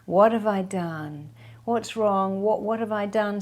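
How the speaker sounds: needy, worried pleading; the wrong way, a mildly anxious plea; anxious questioning. Shown as a demonstration. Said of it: "do not say".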